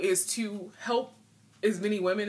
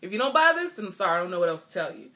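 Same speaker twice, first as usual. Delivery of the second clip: mock pushy seller; 2 semitones higher, 3 dB louder than usual. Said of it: "when people try to say".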